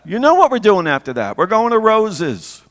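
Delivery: high, loud imitation of mother; mother's reply. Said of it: "And my mother would say".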